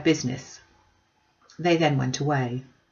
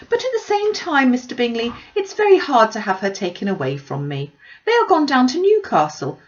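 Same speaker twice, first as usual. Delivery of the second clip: high, loud, breathless gossiping mother; gushing Mrs Bennet; 4 semitones higher, 6 dB louder than usual. Acted. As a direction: pour out the news like an excited busybody. Mrs Bennet voiced by narrator.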